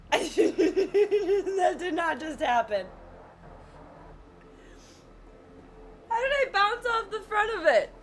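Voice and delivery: laughing disbelief. Real, not acted. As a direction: crack up in disbelief at the fail. After a frustrating game death.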